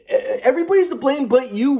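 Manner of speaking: high mocking old man voice; sarcastic grandpa. Grandpa sneering at grandson in argument, sarcastic. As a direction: needle him like a scornful grandfather. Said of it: "trying to be sarcastic with me".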